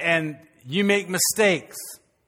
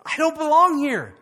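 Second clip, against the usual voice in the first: much higher, louder declaration; hint of David rising up; a touch of resolve; 7 semitones higher, 4 dB louder than usual. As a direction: claim your place. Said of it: "he realizes".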